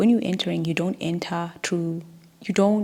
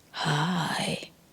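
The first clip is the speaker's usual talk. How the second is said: fake, attempted seductive, would-be sexy voice; 4 dB quieter than usual. Retelling a phone call from an unknown caller; imitating a would-be sexy voice. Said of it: "trying to be sexy".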